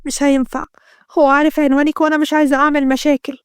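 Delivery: understated sorrow, close to tears; mild tearful sadness. Acted. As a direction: gently voice a sad girl refusing. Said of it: "رنا بحزن والدموع بتتجمع في عينها". (حزن خفيف على وشك البكاء)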